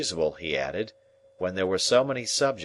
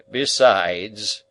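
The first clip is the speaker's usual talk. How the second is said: pompous uncle; 7 dB louder than usual. Acted. Pompous uncle lecturing the dinner guests, loud and slow. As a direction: boom out pompous table wisdom. Pumblechook again.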